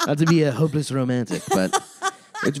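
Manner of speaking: laughing through the words, high and loud; embarrassed real laughter. Real, not acted. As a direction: giggle it out at yourself. Laughs at own sappiness.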